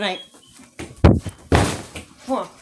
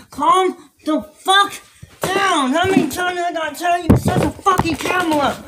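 exasperated yell; 4 semitones higher than usual. Acted. Scolding castmate over camera.

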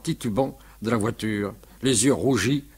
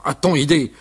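mild angry outburst, a bit louder; 4 semitones higher, 4 dB louder than usual. Acted. Uncle Jules scolding the drunk mover, mildly angry. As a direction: fume at the mover. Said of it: "se fâcha tout rouge".

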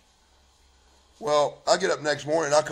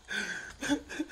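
soft, high, choked sobbing; breaking into sobs; 9 semitones higher, 10 dB quieter than usual. Real, not acted. Husband recalling his promise to wife, breaking into sobs. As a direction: break down in quiet gasps.

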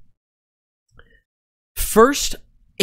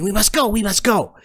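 rattling voices; 6 semitones higher, faster than usual. Acted. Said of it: "several other rattling voices saying".

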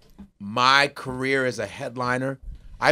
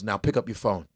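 hushed quote; 6 semitones lower, 6 dB quieter than usual. Retold or imitated. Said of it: "And he goes".

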